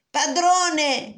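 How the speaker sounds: high, loud wail to its master; harp crying out. Acted. Stolen harp calling the ogre for help, high wail. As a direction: shriek the word up high. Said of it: "gridava l'arpa".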